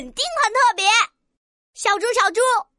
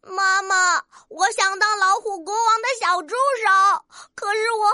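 put-on mildly tearful child character; sad little rooster. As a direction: complain unhappily to mother. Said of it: "怎么这么难过的样子呀".

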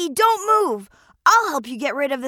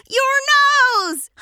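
laughing; 7 semitones higher than usual. Acted. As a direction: laugh at his nose. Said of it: "he burst out laughing".

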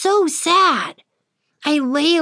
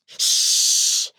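shush. Acted. Hushing the pixie.

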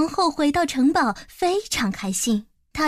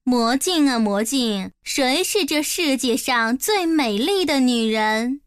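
haughty. Acted. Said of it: "高傲地问道".

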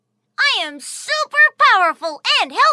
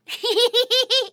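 happy giggle. Acted. Tony laughs at the thought.

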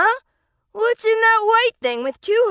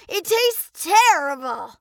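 plain reading voice

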